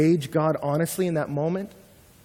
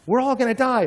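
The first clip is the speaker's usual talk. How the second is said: mock panic; 10 semitones higher, 5 dB louder than usual.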